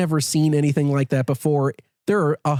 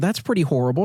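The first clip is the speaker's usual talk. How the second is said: ordinary talk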